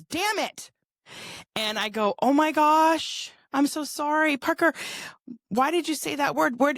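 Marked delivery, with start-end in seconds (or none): 0.0-0.7 put-on high, cursing like a frustrated child; frustrated little boy. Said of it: "something wasn't going his way". 2.2-6.8 mock shocked mother. Mother retells scolding her son.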